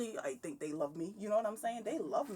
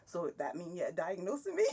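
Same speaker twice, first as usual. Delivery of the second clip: breaking into laughter at the end; playful question dissolving into giggles; amused retort. Retold or imitated. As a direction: let the question tip over into a laugh. Joking reply to psychiatrist, then laughs.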